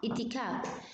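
اتكاف said with a plain i, no ain sound; wrong reading without ain. Shown as a demonstration. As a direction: say اتكاف the way a beginner would, no throat sound. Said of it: "ممكن حدا يقرأها اتكاف". (نطق خاطئ بدون عين)

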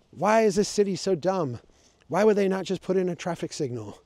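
a hammed-up rant from angry locals; mock angry yelling. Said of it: "And they're yelling".

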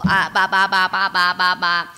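loud, low, even string of syllables; rhythmic babble. Real, not acted. Stressed player babbling through the climb, rhythmic. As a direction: babble steadily on one low note.

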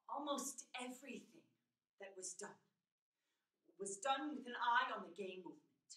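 soft, low, halting dictation; quietly gather your thoughts on tape; understated, pensive last testament; reflective Harvey Milk taping. Acted. Plays Milk taping his will.

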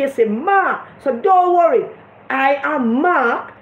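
slow, drawn-out, mock-solemn reassurance ending in a laugh; mocking Bunting. Mocking Bunting reassuring Jimmy, slow and hammed up. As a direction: ham up a pompous promise. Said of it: "Bunting said".

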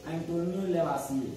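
unhurried "लेवासिए" closing on an open -ye; silent final R. Shown as a demonstration. Teacher answering how it is read, slow "लेवासिए" with silent final R. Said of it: "क्या पढ़ते हैं इसको".

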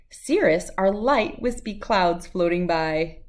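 lively, sing-song read-aloud of a rhyming picture book; bouncy storybook reading voice; reading to children. Acted. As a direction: read it out like story time for little kids.

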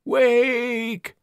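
very high, rising cry; overlapping graveyard whispers. Acted. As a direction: spirits of the dead crying out. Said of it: "the dead whispered".

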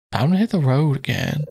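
lightly voiced game hero; character voice. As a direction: hit stressed, light hero read. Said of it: "going in and out of these voices".

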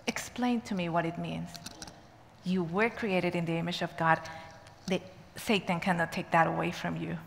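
softly voiced, slightly low exchange; hushed retelling. Prisoner and teacher talking about God's image, softly.

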